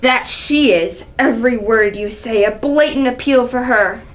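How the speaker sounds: scornful, indignant royal rebuke; a proud ruler scolding a young upstart; angry king. Acted. King berating his son, angry. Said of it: "Seeing the angry side of her".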